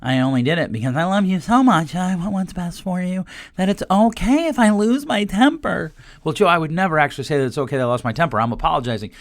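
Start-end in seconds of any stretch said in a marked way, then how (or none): 0.0-5.9 a light mock of a self-excusing apology; mock fake apology. Host mocking a parent's fake apology, lightly hammed. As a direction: say sorry while excusing yourself, lightly hammed. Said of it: "This whole".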